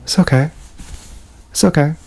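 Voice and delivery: lightly voiced timid little reply; imagined shy voice. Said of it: "Like that".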